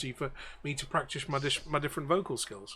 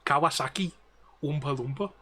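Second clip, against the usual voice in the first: tag Newcastle accent. Shown as a demonstration. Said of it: "the way that they say the vowels".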